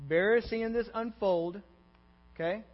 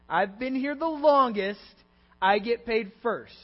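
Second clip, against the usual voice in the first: higher, louder, drawn-out claim; entitled insistence; 4 semitones higher, 7 dB louder than usual. Acted. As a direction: stake your claim slowly and firmly. Voices the first worker's entitled belief.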